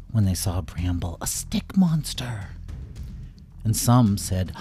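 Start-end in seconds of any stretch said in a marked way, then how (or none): 1.2-2.5 breathless slow whisper of awe; gasped whisper. A narrator's reading. Townsfolk whispering in shock at the stick monster.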